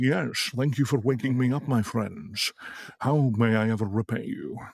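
grand, put-on movie-dragon voice. Showing how silver dragons get voiced: Sean Connery Dragonheart accent. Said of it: "a Dragonheart accent for them, a la Sean Connery".

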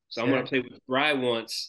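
ordinary delivery

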